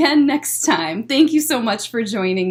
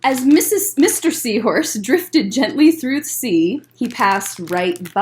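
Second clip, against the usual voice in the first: gentle storytime read-aloud; picture book voice for kids; reading to children; 4 dB louder than usual. Acted.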